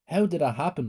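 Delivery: put-on girl staring at her healed wrists, amazed. A narrator's reading. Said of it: "I said, amazed".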